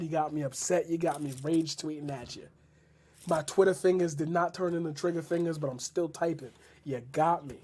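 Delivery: drained after the outburst, soft and low; resigned quiet. Real, not acted. Streamer admitting the troll got to him, quiet and resigned. Rage deflates into resigned calm.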